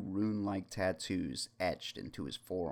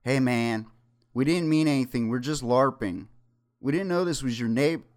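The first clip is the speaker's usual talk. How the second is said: higher, louder nervous pleading; nervous stammer; 6 semitones higher, 7 dB louder than usual. Acted. The DM nervously excuses himself to the gang. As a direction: talk your way out, scared. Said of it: "He eventually uttered".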